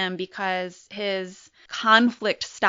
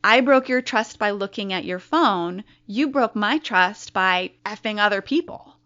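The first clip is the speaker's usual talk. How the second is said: louder, pointed rebuttal; retold shouting; 5 dB louder than usual. Wife yelling back at husband about broken trust, loud. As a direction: fire the trust argument right back at him. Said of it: "I screamed at him some more".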